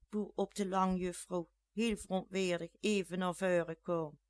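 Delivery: plain reading voice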